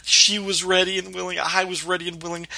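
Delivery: mildly giddy, bragging confession; lightly acted giddy storyteller; giddy retelling. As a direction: retell it with a touch of giddy excitement. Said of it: "how giddy Sam is when he's telling her this story".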